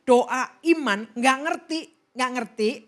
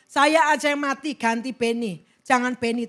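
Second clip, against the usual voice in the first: raised, pleading prayer; retold cried plea; 6 dB louder than usual. Sister begging God for Benny's life, retold cry. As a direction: re-enact pleading loudly with God. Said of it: "Saya teriak-teriak".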